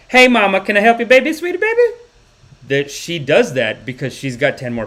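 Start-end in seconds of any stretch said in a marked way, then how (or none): 0.1-2.0 loud, high, gushing nurse; sweet nurse impression. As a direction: sing out pet names, rising higher. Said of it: "nurse that has to be like".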